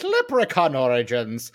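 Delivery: "Leprechaun Origins" said again in a jokey fake Irish lilt; bad Irish accent. Host repeats the movie title for listeners in a mock Irish accent. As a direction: roll the title out like a stage Irishman. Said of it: "if you like bad Irish accents".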